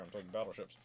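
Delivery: ordinary talk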